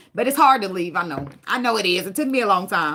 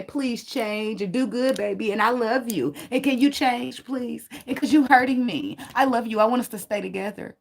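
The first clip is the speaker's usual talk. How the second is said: mock soft pleading. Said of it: "give you love and say".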